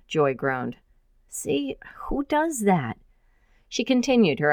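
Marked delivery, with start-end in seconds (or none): 1.3-3.0 exasperated. Acted. Joy exasperated by the dragon.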